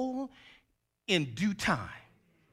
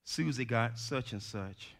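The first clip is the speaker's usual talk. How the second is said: put-on much softer, low small-child plea; humble quiet child; 4 semitones lower, 10 dB quieter than usual. Child quietly asking mama for a toy, soft and humble. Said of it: "humbly and quietly says".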